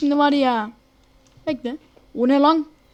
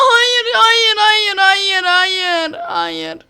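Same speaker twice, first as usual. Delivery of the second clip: fading wail; 3 semitones higher, much slower than usual. Real, not acted. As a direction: let the wail die down. Falling, repeated despair.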